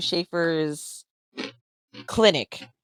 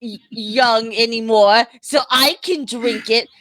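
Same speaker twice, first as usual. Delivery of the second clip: higher, chummy adventurer voice; cheerful character voice; 4 semitones higher than usual. Acted. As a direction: play it friendly and pitched up.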